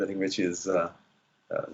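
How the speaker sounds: ordinary talk, nothing marked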